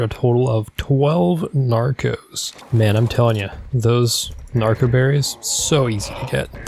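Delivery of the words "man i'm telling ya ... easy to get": sarcastic. Acted. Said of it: "That's sarcasm".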